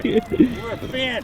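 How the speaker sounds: stretched out, high and excited; hyped. Real, not acted. Opening the video to a fan, high excited cheer.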